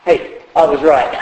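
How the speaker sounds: gloating through a laugh; a laughing told-you-so; smug gloating laugh. Retold or imitated. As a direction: chuckle while crowing I was right. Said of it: "he stopped and said".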